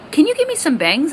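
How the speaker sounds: imitating mom. Mom asks for bangs.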